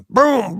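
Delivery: a quick shotgun blast; imitating the shotgun going off; shotgun boom. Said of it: "all of a sudden".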